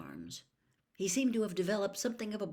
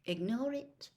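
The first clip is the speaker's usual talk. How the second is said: dignified; 6 semitones higher than usual. Acted. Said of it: "Hermione said in a dignified voice".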